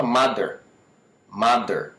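"mother" said as "madder"; hard D in the middle of "mother"; learner's wrong "mother", D for TH; mispronounced D. Shown as a demonstration. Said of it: "Na realidade, tá errado".

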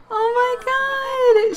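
very high, drawn-out gush; slow, high-pitched squeal of delight; real thrilled exclamation. Real, not acted. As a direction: gush with excitement, stretching each word. Thrilled as couple kiss.

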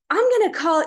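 loud, high mock threat; very upset. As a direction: imitate an angry neighbour laying down the law. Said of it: "he was very upset".

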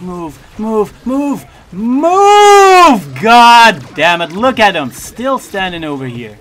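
loud urgent commands; shouting orders over battle. Real, not acted.

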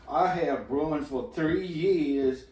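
put-on Boston accent. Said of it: "Did you just do a Boston accent?".

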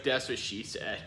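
whispered joke. Pretend. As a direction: whisper the punchline. Joking whisper.

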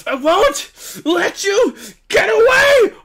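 hammed-up heroine yelling at the villain; quoting Ann. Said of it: "Ann really said".

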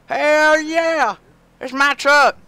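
very high, loud thrilled yelling; excited shouting. Real, not acted. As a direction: crow over the new truck. Thrilled over the new truck.

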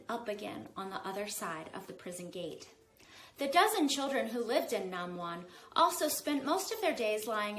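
lively read-aloud narration; story narration. A narrator's reading. Author reading her book to kids, lively narration. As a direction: read the chapter to young listeners.

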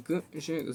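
"г, же" split, with a hard voiced g replacing k; voiced г sound. Shown as a demonstration. Teacher showing the voiced sound in як же, "г, же" in pieces. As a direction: separate out the voiced g before "же". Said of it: "звук «г»".

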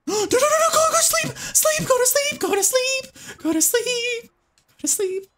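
very high, frantic shushing plea; panicked pleading. Real, not acted. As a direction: beg the creature to fall asleep, fading at the end. Begging the creature to sleep.

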